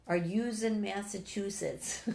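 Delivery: reading a viewer's New York "yous"; lightly put-on New York accent, slow; a touch of New York accent on "yous"; mock New York accent. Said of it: "Making fun of the New York accent".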